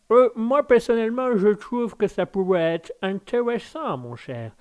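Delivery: put-on measured English accent in French. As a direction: play an English gentleman speaking French, trailing down at the end. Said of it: "au niveau de l'accent anglais".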